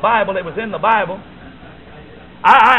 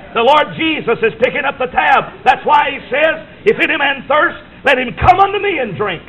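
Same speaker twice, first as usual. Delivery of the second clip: preaching shout; 5 semitones higher than usual. Real, not acted. Preacher to congregation: Jesus pays the tab, shouted. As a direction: proclaim it to the back row.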